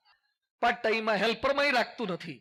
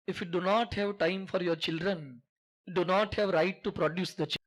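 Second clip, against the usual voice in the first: slow emphatic English; 4 semitones lower, much slower than usual. Acted. English maxim told to all parents.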